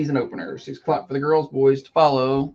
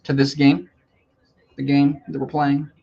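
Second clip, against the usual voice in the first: snarky clarifying question. Real, not acted. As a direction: ask it with a touch of snark. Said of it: "like, snarky attitude".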